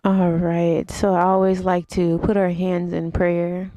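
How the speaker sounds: unhurried instructor cues with long pauses; guided yoga meditation. Real, not acted. Yoga teacher leads viewers through breathing and stretches, guided meditation. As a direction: guide them through each breath, leaving space between phrases.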